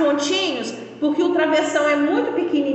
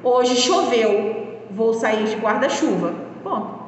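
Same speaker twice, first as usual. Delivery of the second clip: slow, deliberate reading of the example; 3 semitones lower than usual. Shown as a demonstration. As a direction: read it out slowly as a model sentence. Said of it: "Observe um exemplo".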